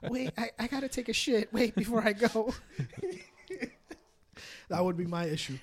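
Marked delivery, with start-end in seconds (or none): 0.1-2.6 high laughing mock plea. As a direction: laugh through the excuse. Retold own excuse, laughing.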